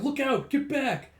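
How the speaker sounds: high, loud, drawn-out shout; urgent warning. Retold or imitated. Character warning of rushing sand, slow acted shout. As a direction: call out a warning across distance.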